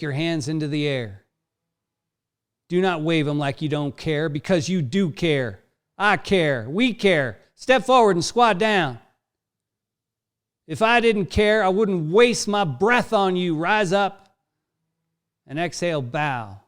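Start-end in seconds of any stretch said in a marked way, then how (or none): 2.7-14.3 drill sergeant. Acted. Yoga teacher barking like drill sergeant.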